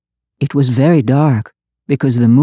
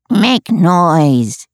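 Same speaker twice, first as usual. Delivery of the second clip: shouted; 3 semitones higher than usual. A narrator's reading. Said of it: "he shouted".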